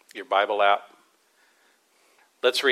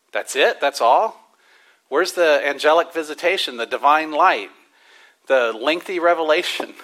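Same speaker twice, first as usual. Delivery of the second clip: lightly incredulous, a bit louder; mock disappointment; 4 semitones higher, 4 dB louder than usual. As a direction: playfully let down. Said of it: "Disappointed for a second".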